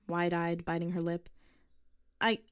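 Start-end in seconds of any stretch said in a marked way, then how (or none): 2.2-2.4 put-on hesitant, halting girl's voice, louder and slow; stammering girl. A narrator's reading. Girl to the old man at his door, stammering. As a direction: stumble nervously over the start. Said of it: "she stammered out".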